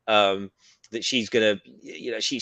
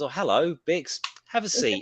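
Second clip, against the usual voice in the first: all smiles; 4 semitones higher than usual. Retold or imitated. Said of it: "and then she's all smiles".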